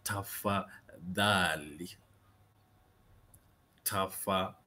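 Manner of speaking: tafadhali slowly, syllable by syllable, voiced th in "dhali"; careful pronunciation. Shown as a demonstration. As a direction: draw out "tafadhali" with tongue between the teeth on dh. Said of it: "how to pronounce this Swahili word".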